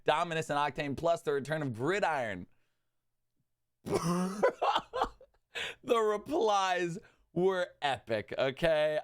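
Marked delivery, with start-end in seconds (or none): 3.8-5.1 disbelieving laugh. Real, not acted. Laughing at the Fan Pass.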